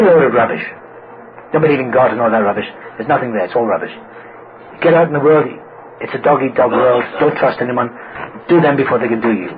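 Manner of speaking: lightly voiced dismissive, hard-nosed dad; tough father. Father scoffing at his son's school prayers, mock tough. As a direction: imitate a father laying down his philosophy. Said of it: "he tried to be tough".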